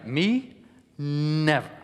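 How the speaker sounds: "never" short, falling, dismissive; rejecting never. Shown as a demonstration. Coach showing the gesture word, a curt falling "never". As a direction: brush it off with "never". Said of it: "this movement that is just "never".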